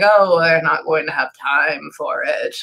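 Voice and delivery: lightly put-on British accent; a slightly drawled British man's voice. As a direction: imitate a British man, lightly. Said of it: "why you're a British man".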